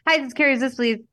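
high, hurried phone greeting; breezed through. Retold or imitated. Kid forced to recite a phone greeting, breezing through it. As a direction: rattle it off as one run-together word. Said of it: "breeze through it".

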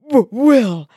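stammered, rising to a loud cry; poisoned hero sputtering his defiance. Acted. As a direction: choke the words out in bits. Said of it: "he sputtered".

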